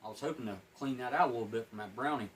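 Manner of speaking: words around a wad of gum; mouth full. Real, not acted. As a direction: still chewing while talking. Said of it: "Talking with my mouth full".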